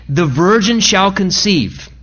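slow, measured prophetic declaration; emphatic certainty. Acted. Preacher voices God foretelling through a prophet, emphatic and certain. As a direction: declare it deliberately, without doubt. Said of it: "with emphatic, uh, you know, certainty".

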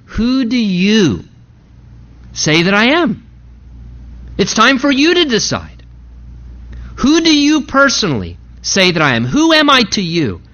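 deliberate, pointed questions with long pauses; pointed questioning. Acted. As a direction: press the question home, pausing between phrases. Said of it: "asking you pointedly".

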